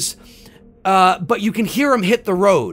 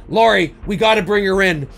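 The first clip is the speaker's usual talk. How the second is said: retold call across the fog, a bit louder; lightly calling out to Lori; a mild mock yell from a distance; 3 semitones higher, 4 dB louder, faster than usual. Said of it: "he yells out to Lori".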